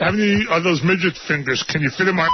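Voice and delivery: low, fast teasing voice; KC impression. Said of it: "it's K C here".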